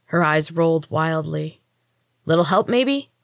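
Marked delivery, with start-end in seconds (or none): 2.2-3.1 sharp, higher snarl of irritation. Acted. Roxy struggling under Mina's weight, snarling for help. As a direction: snap it out, annoyed and strained. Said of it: "Roxy snarled".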